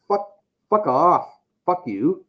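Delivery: loud mock telling off to the in-crowd buddies; retold telling off. Telling off his buddies at the bus stop, loud and high. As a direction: shout them off with a high voice.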